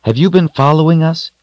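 high, sharp, reproachful question; admonishing. A narrator's reading. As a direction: scold the wolf for following. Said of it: "she admonished".

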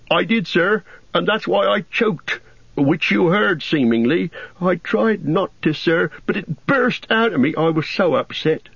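put-on a simple young gardener, earnest and wistful about elves; Sam the gardener. A narrator's reading. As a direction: Sam confessing and pleading to see elves. Sam explains choking.

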